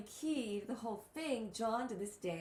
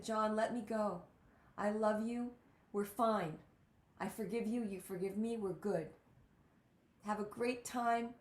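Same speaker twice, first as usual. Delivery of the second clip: gently paced, loving reassurance; retelling a father's loving release, unhurried. Retold or imitated. Father to son in a dream, loving. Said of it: "he just was really loving".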